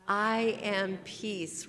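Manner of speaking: very slow, each word weighted; slow spoken mantra; slow affirmation. Shown as a demonstration. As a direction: lay down each word slowly. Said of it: "Say it with me".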